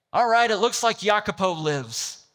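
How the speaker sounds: a casual shrugging pirate chief; lightly voiced pirate captain giving in. Pirate chief grants mercy.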